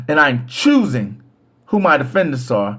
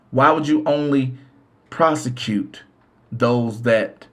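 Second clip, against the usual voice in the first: ordinary delivery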